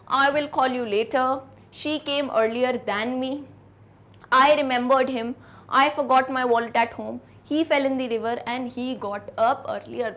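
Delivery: slow, careful dictation; teacher dictating example sentences. Shown as a demonstration. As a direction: read each sentence slowly for copying. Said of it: "जैसे".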